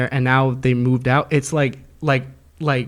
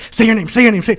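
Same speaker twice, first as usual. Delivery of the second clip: mock scream; 6 semitones higher, 6 dB louder, faster than usual. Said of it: "she starts screaming at me".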